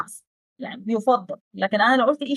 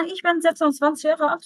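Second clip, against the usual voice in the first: model sentence; 5 semitones higher, much slower than usual. Shown as a demonstration. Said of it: "أنا عمري ستة وعشرين سنة".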